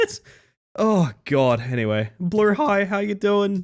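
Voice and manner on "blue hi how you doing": cracking voice, pitched up, breaking mid-word. Greeting someone by name as the voice cracks. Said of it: "My voice cracked".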